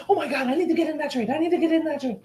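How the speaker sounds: high, fast panicky newbie trader voice; mock the greedy trader who must get in; mocking an overeager trader, high and fast; excited newbie. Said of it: "everybody get excited and said".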